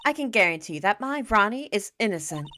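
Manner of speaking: lightly voiced sweet wife. Desirée sweetly warning Nicky boy about Ronnie. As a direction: sweet-talk with a hidden edge.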